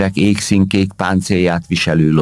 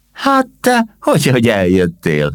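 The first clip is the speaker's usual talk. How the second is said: glad surprise; 7 semitones higher than usual. Acted. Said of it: "örült meg Csipek".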